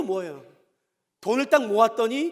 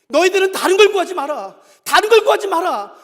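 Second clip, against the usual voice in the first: loud, high-pitched sermon delivery; impassioned preacher driving the point home; forceful preaching; 7 semitones higher, 11 dB louder than usual. Acted. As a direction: proclaim it to the whole congregation.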